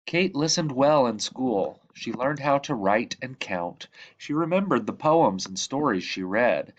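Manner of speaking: lively read-aloud, bright lifts at each new line; storytelling voice. Acted. Reading The Tree Lady aloud to children, storytelling voice. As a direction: tell it like a bedtime picture book. Reads picture book to children.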